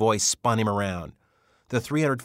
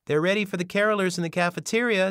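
higher, louder call down the hall; 12 semitones higher, 5 dB louder than usual. Acted. Denise calls to the carolers, loud and high. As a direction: call it out across the building. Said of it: "Denise called out".

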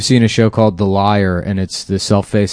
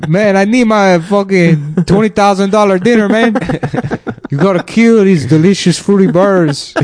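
caricature voice; 9 semitones higher than usual. Pretend. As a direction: whine like a spoiled rich diner. Impersonating a picky meal-eater.

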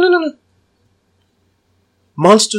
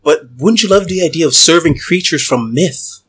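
hypnotic voice. Acted. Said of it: "I'm gonna hypnotic voice again".

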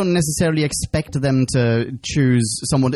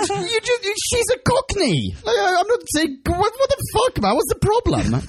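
high mock protest.

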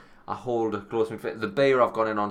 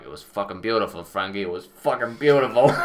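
mock overcome; 6 dB louder than usual. Telling Frankie his song moved him, hammed-up tearful. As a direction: gush it like you're about to weep.

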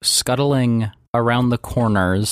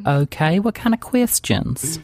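Southern woman voice; 3 semitones higher than usual. Acted. GM voicing Daisy.

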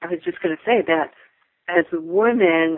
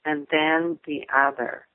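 flight attendant; slower than usual. Retold or imitated. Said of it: "Then they go on to say".

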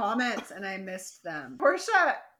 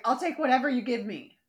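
pleading; 4 semitones higher, 6 dB louder, faster than usual. Retold or imitated. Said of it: "sad, beaten dog".

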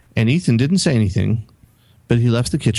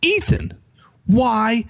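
much higher, sharp scolding cry; reenacted parental yell, higher pitch; retold yell; 13 semitones higher, much slower than usual. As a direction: call him out like an angry dad. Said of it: "I literally yelled at him".

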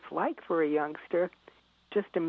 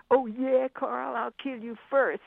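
put-on eager child; 6 semitones higher, 4 dB louder than usual. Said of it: "my daughter said".

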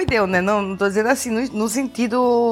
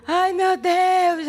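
slow, high drawn-out cry of relief; relieved cry; 8 semitones higher, much slower than usual. Retold or imitated. Mother crying out as baby finally cries, relieved. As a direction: let the relief pour out, stretched. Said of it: "saí gritando pelo quarto".

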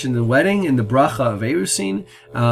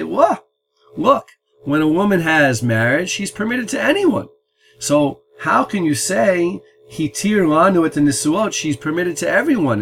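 higher, incredulous voice of an imagined listener; mock astonished objection; 5 semitones higher than usual. Imagined wedding guest objecting to the blessing, in mock higher-pitched disbelief. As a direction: act out a shocked outsider protesting the blessing's wording. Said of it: "Someone might hear that and say".

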